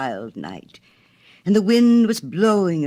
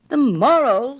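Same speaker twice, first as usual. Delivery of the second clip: high, loud indignant cry; water rat scandalized by the story; screamed; 10 semitones higher, 6 dB louder, slower than usual. A narrator's reading. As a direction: shriek it in outrage. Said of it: "screamed the water rat".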